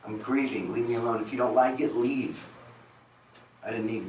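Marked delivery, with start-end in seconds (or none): 0.1-2.5 defensive snap. Retold or imitated. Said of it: "is what I would always say to her".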